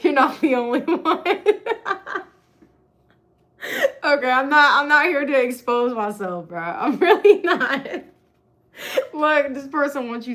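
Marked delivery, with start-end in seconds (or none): 1.2-4.8 loud embarrassed laughter; laughing. Real, not acted. Embarrassed laughing to viewers after a confession. 4.8-7.9 louder, laughing through it; laughing denial. Real, not acted. Laughing denial to viewers, louder.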